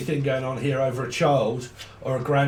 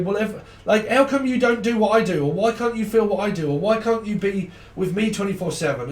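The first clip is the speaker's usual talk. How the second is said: higher, pleading needy partner; a needy partner begging for more time; clingy partner voice; 6 semitones higher than usual. Retold or imitated. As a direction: whine like an insecure lover. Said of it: "looking at this person to say".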